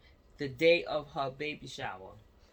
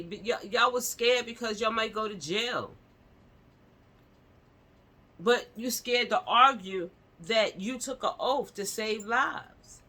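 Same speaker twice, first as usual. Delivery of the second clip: heated rant; 5 semitones higher, 4 dB louder than usual. Real, not acted. Ranting angrily about doctors' oath.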